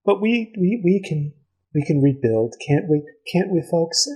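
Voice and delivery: lightly voiced sweet elf lady; a touch of fake sympathy, sing-song; mournful lady, lightly put on; elf woman.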